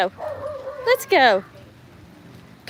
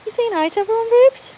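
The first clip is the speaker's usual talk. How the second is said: much higher, brighter voice for the dog; 11 semitones higher, 4 dB louder than usual. Real, not acted. Owner asking her dog Rubes about saying hi, in a high pet voice. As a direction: sweet-talk the dog up high.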